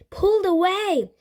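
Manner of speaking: high, loud shouted order; urgent cry. A narrator's reading. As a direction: cry it out to get him free. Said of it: "cried Annie".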